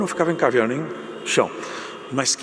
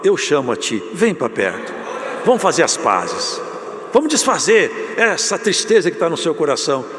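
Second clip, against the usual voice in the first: inviting call; 3 semitones higher, 4 dB louder than usual. Retold or imitated. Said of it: "Hoje o Senhor fala".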